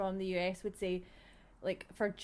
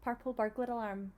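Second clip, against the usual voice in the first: Scottish tongue twister. Shown as a demonstration. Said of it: "it's so underwhelming".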